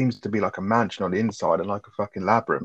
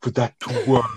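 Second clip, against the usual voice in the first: slow, high, hammed-up vampire drawl; mock the villain's theatrical menace; a hammy horror-film vampire, slow and higher; over-the-top vampire; 3 semitones higher than usual. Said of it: "the way he talks is really over the top".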